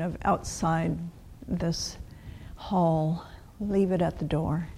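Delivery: calm, measured meditation guidance with long pauses; guided meditation. Real, not acted. Teacher settling a class before the bell, calm guided meditation. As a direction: guide them gently into stillness, phrase by phrase.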